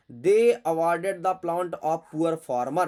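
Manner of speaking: each word read out very slowly; slow, careful read-aloud; slow dictation. Shown as a demonstration. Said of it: "reading the sentence out slowly".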